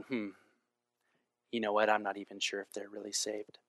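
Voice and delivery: grudging, doubtful mutter, voice dropping away; arms crossed skeptic. Pretend. Preacher mimics a sulking Jonah, skeptical mutter. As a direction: sound unconvinced that anyone changed. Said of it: "with my arms crossed going".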